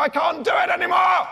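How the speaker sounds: high, loud mock despair; loud, high hammed-up despair; exasperated cry. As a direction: wail it like a worn-out writer. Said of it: "and you go".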